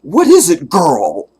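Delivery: put-on high, eager sitcom-kid voice; imitating Jim Carrey. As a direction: call to the dog like an earnest TV boy. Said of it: "And Jim Carrey go".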